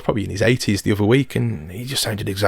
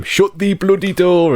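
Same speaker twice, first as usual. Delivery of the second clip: imitating granddad's broad old Shropshire dialect, higher and slow; granddad's old Shropshire accent, higher pitched and slowed; 9 semitones higher, 4 dB louder, slower than usual. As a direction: put on an old Shropshire miner's accent, drawn out. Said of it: "you know, the old Shropshire".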